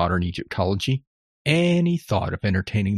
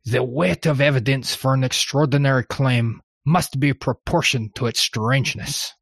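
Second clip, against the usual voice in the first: put-on outrageous French accent; 3 semitones higher than usual. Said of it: "outrageous French accent".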